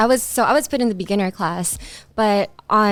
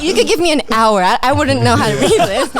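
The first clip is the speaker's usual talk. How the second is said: laughing; 3 semitones higher, 5 dB louder than usual. Real, not acted. Laughing while admitting.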